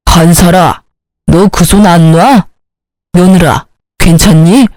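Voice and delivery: put-on low, slow older man's voice; acted low-voiced patriarch; stern father-in-law.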